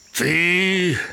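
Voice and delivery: high, drawn-out scornful question; scornful lion. Acted. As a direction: scoff at the tiny mouse in disbelief. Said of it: "презирливо гмикнув Лев". (презирливе левине здивування)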